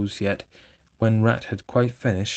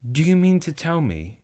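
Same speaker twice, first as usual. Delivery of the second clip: loud, much higher shout; 9 semitones higher, 6 dB louder than usual. A narrator's reading. Rat shouts at Toad, thumping the table. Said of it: "shouted the Rat".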